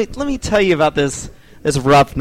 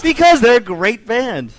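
emphatic, higher-pitched mock sincerity; possibly sarcastic; 4 semitones higher than usual. Real, not acted. Guest defends his favorite band, possibly sarcastic. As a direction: defend them with a hint of sarcasm. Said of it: "Are you being sarcastic?".

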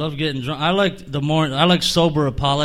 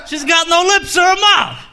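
Frank Caliendo impression; 11 semitones higher than usual. Mocking Frank Caliendo's style, high and blustering. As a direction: rant like a blustering comic impression.

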